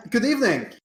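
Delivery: high, put-on giant greeting. Player greets the giant in its language, playfully. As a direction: greet the giant in its own tongue, hammed up. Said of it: "in giant".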